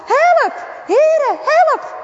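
high, loud pained wailing; crying for help. Acted. Bart cries for help while his coat burns. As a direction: plead in pain as the flames spread. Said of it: "kermt Bart".

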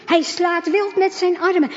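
ordinary delivery, nothing marked

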